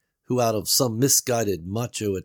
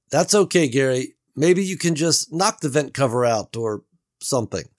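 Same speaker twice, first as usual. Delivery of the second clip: higher, louder doubtful Beverly; Beverly's voice; 5 semitones higher, 5 dB louder than usual. A narrator's reading. Beverly doubts Gary's escape plan, worried and raised. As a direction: voice her worry, raised.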